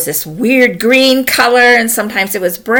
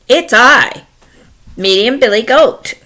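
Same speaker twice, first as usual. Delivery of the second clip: lightly voiced middle-sized goat; a hint of goat character, slightly raised; medium goat; 4 semitones higher, 4 dB louder than usual. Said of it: "along comes me and Billy Goat".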